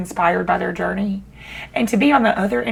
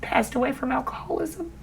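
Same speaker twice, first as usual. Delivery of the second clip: tearful; 2 semitones higher, 3 dB quieter than usual. Real, not acted. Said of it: "I'll just ugly cry on camera".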